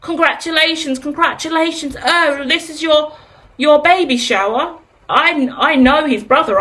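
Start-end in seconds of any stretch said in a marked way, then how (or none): 0.0-4.8 higher, lightly sing-song congratulations; lightly voiced cooing friends; mock well-wishers. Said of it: "Everyone's commenting on his stuff".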